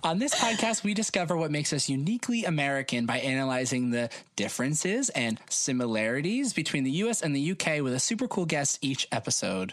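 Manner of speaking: vary the cadence playfully, dropping at the close; unusual cadence. Real, not acted. Host changing up the podcast intro, odd cadence. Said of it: "Weird cadence. Fun".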